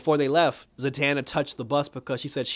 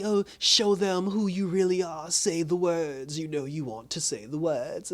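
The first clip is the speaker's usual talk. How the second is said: put-on slow, higher old-woman coaxing; old lady voice; 3 semitones higher, 3 dB quieter, slower than usual. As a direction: tempt her softly like an old crone. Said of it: "talking kinda like a little old lady".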